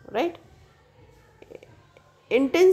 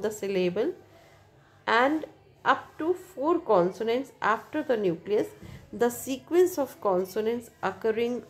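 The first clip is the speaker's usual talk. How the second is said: slow, careful reading from the book; textbook reading; much slower than usual. Acted. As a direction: read the definition out slowly for students. Reads textbook English slowly.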